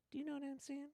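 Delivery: tiny, soft falsetto; comic high-pitched little voice; silly high voice. Pretend. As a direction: squeak it out very high and quietly. Repeats catchphrase in silly voice.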